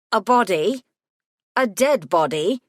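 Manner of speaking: a lightly played shocked gremlin; rising shock. A narrator's reading. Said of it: "His voice was rising".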